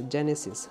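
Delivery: जेनेसिस said carefully as "je-ne-sis"; correct pronunciation. Shown as a demonstration. Teacher asking students to pronounce जेनेसिस properly, correct pronunciation. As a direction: say जेनेसिस with a j and two s sounds. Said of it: "सही से प्रोनाउंसिएट करिएगा इसे".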